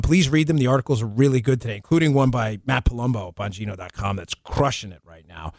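ordinary talk

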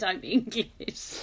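slow, laughing "I'm English"; giggling as you retell it; laughing retold line. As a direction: say it through laughter. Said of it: "I just said".

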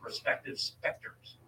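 article read out to a co-host; reading aloud. Real, not acted. Host tells co-host who built the chronovisor, reading aloud. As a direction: read it from the page, steady and informative.

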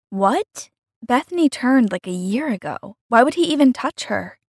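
taken aback; shocked disbelief. Acted. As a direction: react in disbelief, pitch leaping up on the questions. Acted shocked reply to news.

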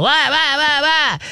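high, hyper dog noises; high-energy dog. Acted. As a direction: imitate a frantic, excitable dog. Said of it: "Gilligan's a high energy dog".

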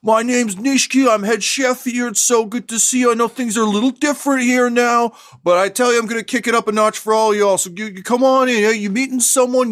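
very high, loud, eager restaurant greeter; booming high chef voice welcoming diners to his eatery; overexcited chef host. Acted. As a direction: gush at the guests like a hyped-up chef. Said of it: "he comes in and he says".

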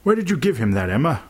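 a mild, searching teacher's question; soft questioning. A narrator's reading. Teacher asking Emma about the apple, softly questioning. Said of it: "Mister Miller said softly".

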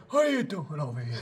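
low, soft self-talk; talking to oneself. Retold or imitated. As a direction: imitate rehearsing alone at the mirror. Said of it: "talking to yourself in the room".

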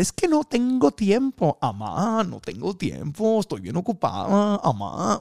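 put-on high, slow whining to mom in a Tijuana accent; whiny Tijuana complaint. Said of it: "me habla así porque yo soy de Tijuana". (queja chillona a la amá con acento de Tijuana)

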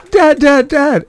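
put-on high, loud kid calling for Dad; urgent calling. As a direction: imitate an urgent cry for Dad. Boy runs to dad, hurt.

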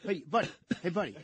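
high, hammed-up shout at a tourist; mock confrontation. Host acting out scolding smiling tourists, high mock anger. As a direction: play the outraged New Yorker scolding tourists.

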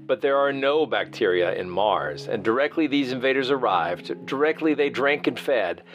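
reading a classic novel aloud; measured literary narration; dramatic reading. Acted. Host reads Wells passage aloud.

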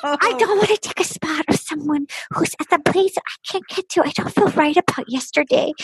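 lightly imitated little-girl voice; mock her as a helpless baby bird. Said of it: "like a little baby girl, a little baby bird".

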